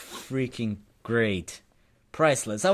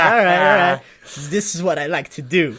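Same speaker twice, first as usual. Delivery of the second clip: louder, imitating an easygoing, pleased man; retold happy acceptance; 3 semitones higher, 7 dB louder than usual. Homeless guy accepting a free coffee, imitated as happily agreeable. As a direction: play him gladly going along with it. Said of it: "He was, like, so accepting of it".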